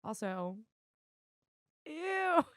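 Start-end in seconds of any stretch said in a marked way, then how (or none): 1.9-2.4 loud, high, grossed-out ew; sudden yelp of disgust. Real, not acted. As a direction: recoil with a loud squeal of disgust. Reacts to the dog.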